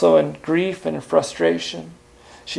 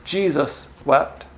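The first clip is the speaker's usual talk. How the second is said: hushed, slow; 2 semitones lower, 6 dB quieter, slower than usual. Real, not acted. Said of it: "closes list, slow and soft".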